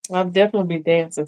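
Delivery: repeated quickly through a real laugh; laughing reply to the viewer. Real, not acted. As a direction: laugh while you repeat it.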